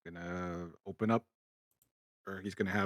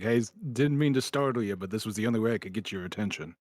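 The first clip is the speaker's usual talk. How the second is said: apologetic call; 3 semitones higher, 6 dB louder than usual. Acted. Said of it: "just like".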